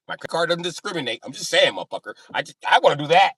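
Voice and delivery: put-on high, loud, insistent old white guy; old white guy impression. Old white guy defending his credit card, high eager voice.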